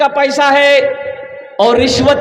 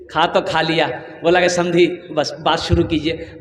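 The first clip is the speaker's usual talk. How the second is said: low, soft acted in-law; understated, lowered-voice request; hushed negotiation; 7 semitones lower, 6 dB quieter than usual. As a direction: open the bargaining discreetly in a low voice. Acting in-laws opening dowry talk.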